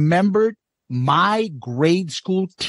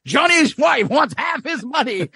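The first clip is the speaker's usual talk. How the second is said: pitched-up, quick storyteller; imitating Eddie; 6 semitones higher than usual. Retelling Eddie's supermarket bit, high and quick. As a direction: rattle off the gossip fast. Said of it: "He's like".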